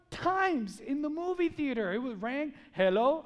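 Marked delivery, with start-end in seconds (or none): 2.7-3.2 imitating a loud phone pickup; loud phone answer. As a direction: answer the phone much too loudly. Acting man answering phone in theater.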